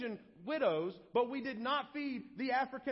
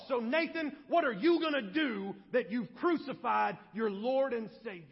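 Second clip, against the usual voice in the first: stern, raised preacher's charge; Peter; 2 semitones higher, 5 dB louder than usual. Acted. Acts Peter accusing the preacher himself.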